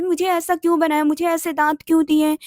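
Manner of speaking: a child's loud complaint, half-acted; plaintive complaint to God. Little girl loudly asks God why her teeth, mock wailing. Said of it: "मैं इसे ही बोलती थी".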